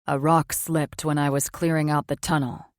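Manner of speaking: low, subdued male voice; lightly voiced weary man. Male character voice.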